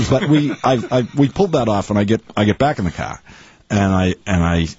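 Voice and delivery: light Boston accent, R's dropped; easy Boston storytelling accent; Dorchester accent. Shown as a demonstration. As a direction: tell it in casual Dorchester speech. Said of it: "this accent".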